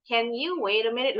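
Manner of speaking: a model question that climbs to MINUTE; rising question intonation. Shown as a demonstration. Teacher repeats the example question, rising intonation. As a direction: end "minute" on an upward tune. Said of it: "jadi intonasinya naik".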